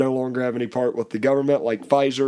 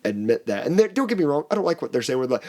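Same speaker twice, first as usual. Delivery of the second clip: usual speaking voice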